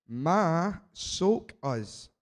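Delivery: broad Scottish accent, slow and deliberate; thick Scottish accent. Real, not acted. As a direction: read it out in his thick Scottish brogue. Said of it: "now obviously I've got a thick Scottish accent".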